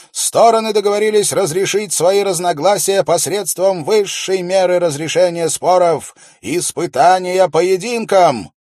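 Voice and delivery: loud, high proclamation to the crowd; confident royal steward. A narrator's reading. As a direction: read the decree out with confidence. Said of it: "Шон продолжил свою речь".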